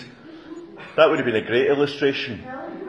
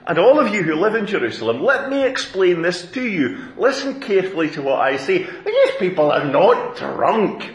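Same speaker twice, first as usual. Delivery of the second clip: addressing the crowd; 6 semitones higher than usual. Acted. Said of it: "he addressed the crowd".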